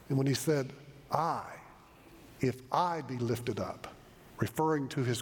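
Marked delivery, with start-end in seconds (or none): 1.1-3.9 "I" alone, then a long pause; deliberate stress on "I"; emphatic I. Retold or imitated. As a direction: set the first "I" apart and lean on the second. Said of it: "Jesus uses that emphatic".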